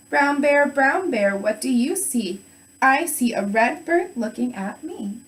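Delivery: slow, lilting storybook reading; read-aloud to kindergartners. Shown as a demonstration. Teacher reading a picture book to kindergartners, measured singsong voice. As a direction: stretch the question and answer for young listeners. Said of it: "so you want me to read like this".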